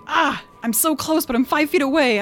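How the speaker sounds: mock-whine about being just out of reach; frustrated player. Player whining to the table about being five feet short, high and loud. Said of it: "she's like".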